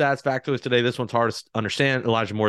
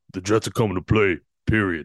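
voice dropped as deep and low as possible; 6 semitones lower than usual. Quoting a named person's words about the Jets: deepest voice as Michael Clemens. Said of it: "let me put on my deepest voice".

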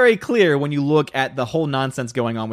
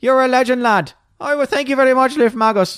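put-on Irish-accented voice; 10 semitones higher, 4 dB louder than usual. A streamer thanks a donor, switching to an Irish voice. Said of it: "Cue Irish voice".

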